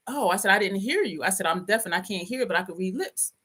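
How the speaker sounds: matter-of-fact straight-faced excuse; deadpan. Retold or imitated. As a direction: deliver the fib with a straight face. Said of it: "I looked at him dead ass".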